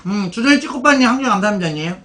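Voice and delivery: smacking lips while talking; loud chewing. Real, not acted. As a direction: talk through noisy chewing. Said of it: "제가 쩝쩝 소리 내는 거". (쩝쩝 씹으면서 말하기)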